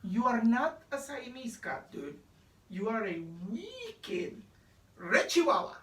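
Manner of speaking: put-on light Spanish accent, tough talk to the mirror. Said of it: "using his very best Spanish accent".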